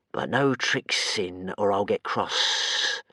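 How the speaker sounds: slow, far monster voice; slow grumbling creature; warning creature. Acted. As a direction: warn him sulkily. Creature warns.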